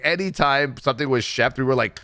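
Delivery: ordinary talk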